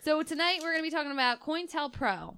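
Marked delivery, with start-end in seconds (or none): 1.4-2.4 COINTELPRO with "coin" as one syllable, KOYN-tel-pro; mispronounced acronym. Real, not acted. Host introducing tonight's topic, COINTELPRO mispronounced as KOYN-tel-pro. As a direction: run the start of COINTELPRO together like the word coin. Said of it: "that's not how it's pronounced".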